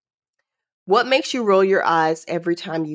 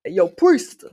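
friendly call-out; 3 semitones higher, 7 dB louder than usual. Retold or imitated. Imitating friends calling her.

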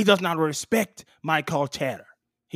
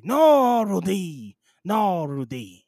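drawn-out mock protest in French accent; high French-accented wail, sliding down; acted refusal; 4 semitones higher, 6 dB louder, much slower than usual. Refusing Rudy in an acted quote, drawn-out protest.

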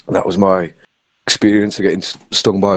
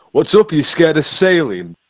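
mocking dad; 7 semitones higher than usual. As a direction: imitate a dad mocking his crying son. Dad voiced mocking in story.

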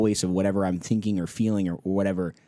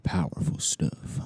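slow whispered awe; mock awed whisper; 6 semitones lower, 4 dB quieter, slower than usual. Cohost echoing the answer in a mock reverent whisper. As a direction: hush it like a sacred truth.

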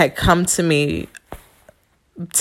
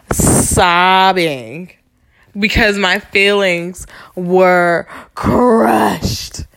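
choked up, slow and crying; tearful; 2 semitones higher, much slower than usual. Real, not acted. Recalling how he crushed her feelings, slow and tearful. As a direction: let the tears break through the words.

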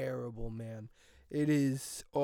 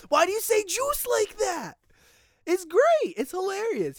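high, laughing and louder; laughing disbelief; 14 semitones higher, 4 dB louder than usual. Real, not acted. Vlogger laughing at the Wendy's training video. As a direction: crack up while asking why.

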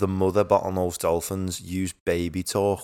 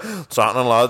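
Scouse dad; 3 semitones higher, 5 dB louder than usual. Pretend. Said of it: "And he's just like".

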